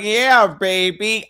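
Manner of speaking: put-on slow, drawn-out Yeah, baby; slow, lightly mocking Austin Powers; Austin Powers impression. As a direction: savour it like the spy in the movie. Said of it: "Talking about".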